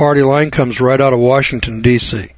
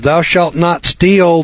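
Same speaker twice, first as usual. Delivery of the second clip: slow, higher, each word weighed; solemn slow quote; 4 semitones higher, much slower than usual. Shown as a demonstration. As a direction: intone the commandment slowly. Quoting a commandment, slowed right down.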